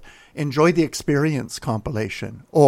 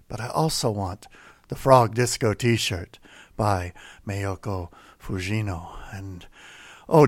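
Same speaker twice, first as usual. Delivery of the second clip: mock sultry pledge plea; 3 semitones lower than usual. Mock devotional pledge pitch.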